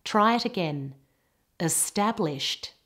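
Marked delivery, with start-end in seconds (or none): 1.6-2.7 "Established" ending in a clear T; final T sound. Shown as a demonstration. Teacher models a past tense ending, final T on "Established". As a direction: finish "Established" on a crisp T, not D. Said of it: "getting a T sound on the end".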